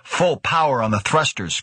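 high, sharp snapped order. A narrator's reading. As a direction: snap the command out. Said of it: "Krebs snapped".

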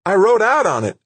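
high, agitated call; anxious, high. A narrator's reading. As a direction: report anxiously in a high pitch. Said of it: "her voice anxious, high".

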